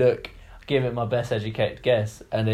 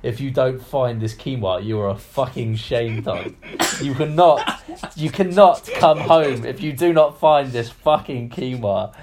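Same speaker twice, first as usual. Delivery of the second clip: slow, drawn-out self-scolding; mock stern self-talk; 3 dB louder than usual. Shopper telling himself off, slow and stern. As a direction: scold yourself like a stern parent. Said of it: "I'll be like".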